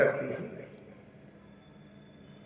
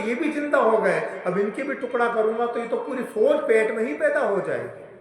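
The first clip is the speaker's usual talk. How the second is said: mildly alarmed; 3 semitones higher than usual. Acted. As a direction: reason aloud with a touch of panic. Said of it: "इधर इंद्र भी घबरा गया". (हल्की घबराहट का अभिनय)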